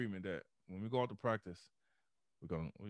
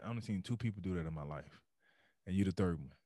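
raspy voice; 4 semitones lower, faster than usual. Retold or imitated. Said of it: "he got this real raspy voice".

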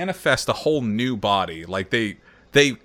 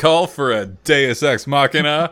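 hero entrance voice; 2 semitones higher, 5 dB louder than usual. Retold or imitated. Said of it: "It's me, Mister Animus".

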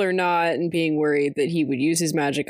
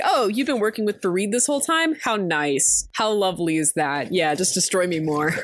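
mock sarcasm. Karina sarcastic at Malik's betrayal.

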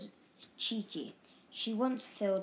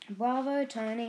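cheering; 4 semitones higher, 5 dB louder than usual. A narrator's reading. Mother cheering from piano.

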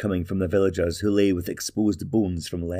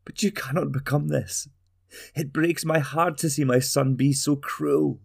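tender mother; 6 semitones higher than usual. Acted. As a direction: soothe her boy gently. Mother pleads with her son.

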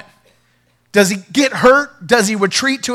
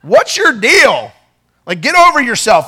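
casual brush-off. Retold or imitated. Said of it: "Ren translation".

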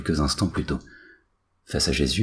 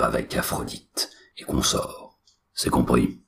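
more solemn voice; 3 semitones lower than usual. Acted. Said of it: "encore plus solennelle".

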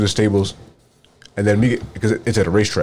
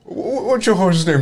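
stammering guard; 11 semitones higher than usual. Retold or imitated. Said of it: "He's like".

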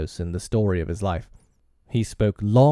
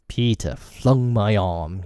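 wincing; slower than usual. Acted. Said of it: "he said, wincing".

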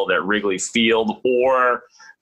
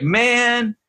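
angry yell; 13 semitones higher than usual. Retold or imitated. Barry Bonds yelling at the reporter mid-workout. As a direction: snap out the word man much higher. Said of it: "then he yells".

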